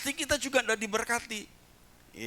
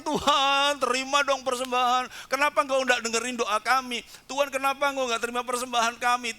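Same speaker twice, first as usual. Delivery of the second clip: higher, fast, begging God; mock desperate pleading; pleading prayer; 5 semitones higher than usual. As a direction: nag God to accept the offering. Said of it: "baru orang".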